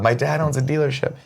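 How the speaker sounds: like after screaming in a club; giddy party girl. Retold or imitated. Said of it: "party girl voice".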